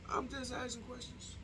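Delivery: high and very soft; small mock-innocent voice. Vlogger backing away from his question, tiny innocent voice. Same disclaimer repeated, much softer.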